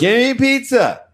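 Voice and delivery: put-on very high, loud drunken squeal; drunk demand. Drunk woman ordering around non-waiters, high loud demanding squeal. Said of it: "you order people who are not waiters".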